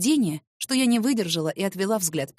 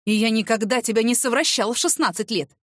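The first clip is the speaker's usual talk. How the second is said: shouting. Acted. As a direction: bellow the denial at her. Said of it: "Ну зачем так кричать-то?". (громко, возмущённо)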